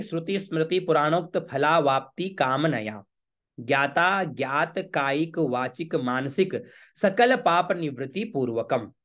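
slow, deliberate mantra recitation; Sanskrit recitation. Shown as a demonstration. Priest models the vow for worshippers, slow Sanskrit recitation. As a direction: draw out each Sanskrit word ceremonially.

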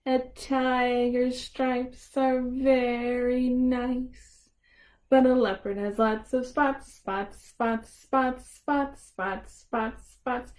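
lively picture-book read; reading to children. Acted. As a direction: read it out to little kids.

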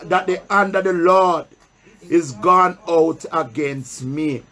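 solemn pulpit Bible reading; scripture reading. Acted. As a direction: read the verse slowly to the church, pausing for answers. Preacher reads scripture aloud.

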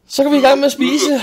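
high, loud dinnertime call; calling to dinner. Retold or imitated. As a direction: call the kids cheerfully to the table. Parent calls children to dinner.

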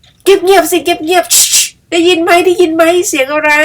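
high, slow hushed crow voice; a crow straining to hear a sound; shushing crow. Acted.

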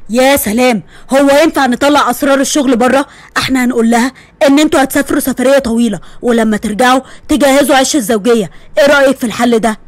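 father ordering daughter to wear the dress; firm father. Acted. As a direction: lay down the law gently. Father voiced lower.

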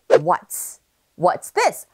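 "what's" as one short joined syllable; contracted pronunciation. Shown as a demonstration. Teacher models the contraction for learners, "what's" said short and joined. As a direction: run "what" and "is" together into "what's". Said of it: "is를 짧게 이어서".

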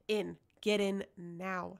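loud, slow, commanding; urgent order. Acted. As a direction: bark the order, each word weighted. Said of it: "she ordered".

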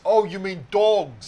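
loud, slow, drawn-out "dogs"; stressed "dogs". Acted. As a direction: raise pitch and volume, stretch out "dogs". Correcting dags to dogs, film quote.

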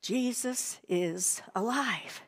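slow, softly voiced declaration. Shown as a demonstration. Leading children out of whispering the secret, softly spoken. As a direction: say it aloud but gently, word by word. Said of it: "Now we're gonna say it louder".

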